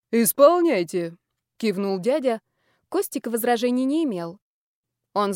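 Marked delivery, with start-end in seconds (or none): 0.1-1.2 lightly voiced commanding uncle. Uncle ordering guards.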